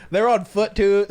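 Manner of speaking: ordinary delivery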